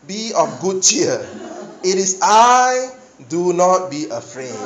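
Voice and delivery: slow, calm and reassuring; gentle reassurance. Acted. Preacher voicing Jesus reassuring frightened disciples. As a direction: speak like Jesus calming them. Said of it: "Jesus spoke to them saying".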